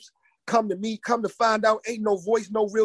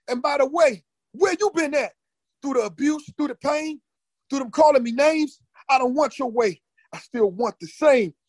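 angry; 6 semitones higher than usual. Retold or imitated. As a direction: shout back in defiance. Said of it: "So I got mad".

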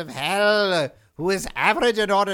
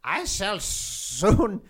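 lightly voiced king of hell prophesying; ominous prophecy. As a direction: intone it like a dark prophet. Demon king delivers dire warning.

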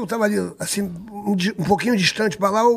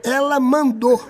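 dramatic revelation; 4 semitones higher, much slower than usual. Retold or imitated. Dramatic revelation grows indignant.

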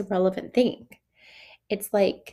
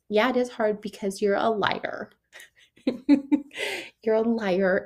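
mock accusation; 2 semitones higher than usual. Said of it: "Not like".

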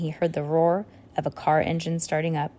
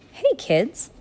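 cheery, higher-pitched greeting; beaming; 7 semitones higher than usual. A narrator's reading. Chubby man to children just waking, beaming. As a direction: greet them brightly, voice lifted. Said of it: "out loud in a beaming voice".

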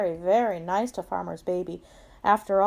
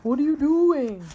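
higher, louder questioning cow; lightly voiced cow, pitched up; storybook cow; 6 semitones higher, 5 dB louder than usual. A narrator's reading. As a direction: ask it as the puzzled cow. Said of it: "said Cow".

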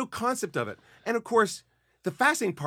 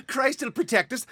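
mock pious villagers; 7 semitones higher than usual.

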